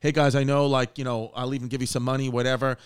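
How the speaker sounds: mildly polite, restrained appeal; polite request. Retold or imitated. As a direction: imitate a father asking nicely. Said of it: "The guy said very politely".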